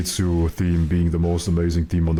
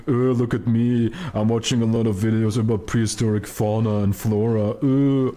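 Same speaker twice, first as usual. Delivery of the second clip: mocking nerd voice; 5 semitones higher than usual. Mocking chat user Headwind as nerd.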